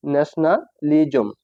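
careful, slowed ন্যাশনালিজম with a gap inside; slow pronunciation demo. Shown as a demonstration. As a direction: break ন্যাশনালিজম slowly into ন্যাশনা and লিজম. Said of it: "আমি এই বারবার উচ্চারণ করি".

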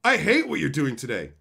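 loud whiny mock; mock whiny customer. Streamer mocking entitled fans, loud whiny mock. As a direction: snap it like a spoiled kid. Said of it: "Well, wait till bread day".

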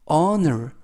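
"honor" starting straight on the O sound; silent H. Shown as a demonstration. Teacher repeating the word after explaining it, "honor" with no H sound. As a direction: leave the H of "honor" unspoken. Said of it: "H가 묵음이라서 발음이 되지 않습니다".

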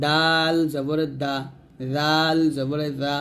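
slow spelling-drill recitation with long-held letter names; read-along drill. Shown as a demonstration. Teacher leading learners to read along, slow drill recitation. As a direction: draw out each letter name, then land the syllable. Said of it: "আমার সাথে আপনারা পড়বেন".

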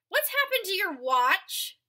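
a mother noticing something missing; mother asking. Acted. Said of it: "asked his mother one day".

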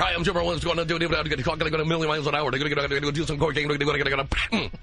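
a fast, hyped hint of Jim Rome; lightly voiced sportscaster, rushing; cheesy Jim Rome. Comedian to radio host, a cheesy Jim Rome. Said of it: "That's my cheesy Jim Rome impression".

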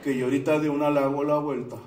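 imitating an unhurried Colombian lad; mock-tranquil, level delivery; very calm. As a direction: reassure coolly, as if it is no trouble. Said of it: "muy tranquilo me dijo".

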